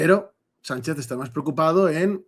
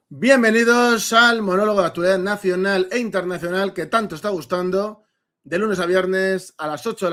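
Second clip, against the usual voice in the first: higher announcer-like welcome; show-opening welcome; 3 semitones higher, 3 dB louder than usual. Real, not acted. Host welcoming listeners to the daily current-affairs monologue, announcer welcome. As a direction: launch the show, louder on the first word.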